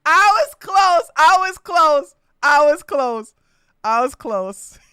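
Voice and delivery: loud, slow singsong fading down; repeated gloat. Real, not acted. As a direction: crow it again and again, winding down. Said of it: "repeats, fading".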